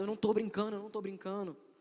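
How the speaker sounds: high, desperate, insistent tone.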